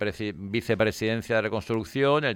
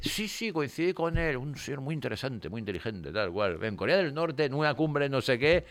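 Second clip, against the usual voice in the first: offhand royal tone; 4 semitones higher, 3 dB quieter than usual. Retold or imitated. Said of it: "El tono era el mismo".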